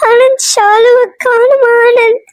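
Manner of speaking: put-on wife tells husband the girl is missing, crying. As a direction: sob it out to your husband. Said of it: "ஏன் அழுவுற?".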